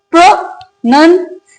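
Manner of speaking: प्रोनाउंसिएशन broken into pro, nun, see, ay, shun; syllable by syllable. Shown as a demonstration. Teacher recapping the correct word for learners, syllable by syllable. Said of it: "तो हमारी correct".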